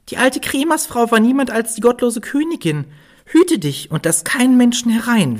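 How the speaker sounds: high, loud alarmed dwarfs. Acted. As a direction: warn urgently as dwarfs. Dwarfs warn the girl.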